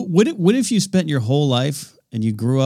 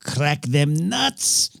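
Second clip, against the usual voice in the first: mock ad voice; 5 semitones higher, much slower than usual. Echoing the commercial voice.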